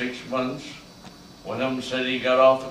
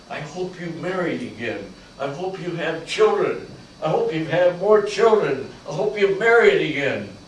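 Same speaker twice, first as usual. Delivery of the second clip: pleading to his wife, growing louder; building plea; 4 semitones higher, 6 dB louder than usual. Retold or imitated. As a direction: push it harder with each hope. Dying soldier's wish to wife.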